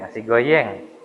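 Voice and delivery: "goyeng" with a y sound in place of the rolled r; lightly voiced husband mangling "goyeng". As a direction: imitate a man who can't say R: "goyeng". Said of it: "kagak bisa ngucapin R".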